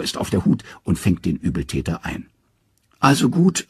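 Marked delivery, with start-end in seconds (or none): 3.0-3.7 high, sly trickster voice; Loki, cornered. Acted. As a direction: give in with a cunning twist. Loki caught, gives in.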